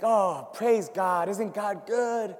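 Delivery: slow, sing-song churchy praise; hammed-up cheerful piety; mock pious praise. Preacher mocking his fair-weather praise, slow pious lilt. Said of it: "it's like".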